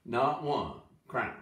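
slow, with Not punched; stress on not. Shown as a demonstration. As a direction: hit Not, slowly. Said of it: "Literally translated".

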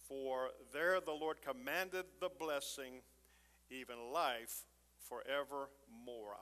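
slow, weighty reading of the verse; solemn Scripture reading. Acted. Pastor reading the psalm to the congregation, slow and solemn. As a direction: lay each phrase down slowly and reverently.

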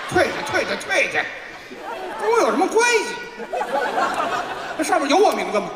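high, indignant shooing away; mock indignant protest. Comic shoos his partner away and denies involvement, high mock indignation. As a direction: protest your innocence in a high-pitched fuss.

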